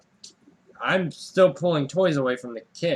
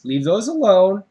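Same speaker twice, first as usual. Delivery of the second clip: telling off; 6 dB louder than usual. Retold or imitated. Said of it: "I kept telling him".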